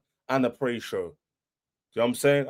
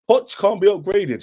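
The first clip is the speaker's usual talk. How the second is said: higher, whiny mock rival fan voice; mocking the haters; 6 semitones higher, 4 dB louder than usual. Fan mimicking rival haters with a whiny mock voice. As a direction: sneer their words back in a silly voice. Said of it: "When everyone was like".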